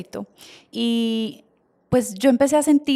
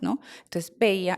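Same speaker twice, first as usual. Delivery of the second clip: normal talking voice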